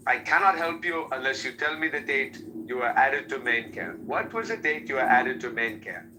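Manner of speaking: lightly imitated African accent. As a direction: imitate an African phone representative. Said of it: "the representative was an African".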